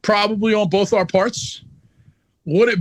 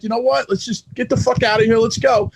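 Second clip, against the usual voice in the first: mild retold anger; 3 semitones higher than usual. Wrestler telling his guys to leave, mildly pissed off. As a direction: retell a fed-up order to leave, not shouted. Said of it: "I was, I was pissed".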